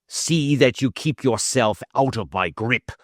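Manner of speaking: a hint of a menacing snarl; light snarl. Roylott lightly snarls a warning at Holmes before leaving. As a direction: warn him off, lightly menacing. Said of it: "he snarled".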